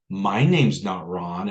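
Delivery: slow, deliberate monotone; mildly mock-monotone, drawn out. Teller imitating own reply to a scam caller, monotone. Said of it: "like, a very monotone voice".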